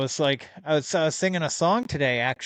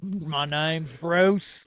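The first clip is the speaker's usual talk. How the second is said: Bruce the shark; 4 semitones higher, much slower than usual. Retold or imitated. Quoting Finding Nemo's shark Bruce.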